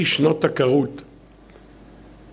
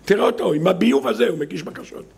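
higher-pitched mocking accuser; sneering accusers; 5 semitones higher than usual. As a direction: point him out with scorn. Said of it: "המקטרגים קופצים מיד".

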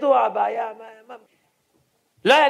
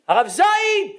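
tearful cry; 9 semitones higher, slower than usual. Retold or imitated. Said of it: "ומתחיל לבכות".

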